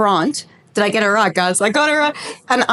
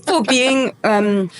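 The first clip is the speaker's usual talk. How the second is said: mouth burning from spicy food; much slower than usual. Real, not acted. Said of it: "my mouth is burning".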